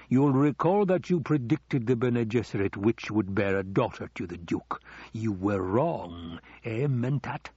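a hint of a gloating lord catching an error; accusing Baron.

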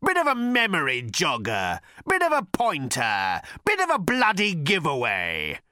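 high, slow, bellowing rage. A narrator's reading. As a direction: bellow out years of grievance. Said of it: "he bellowed".

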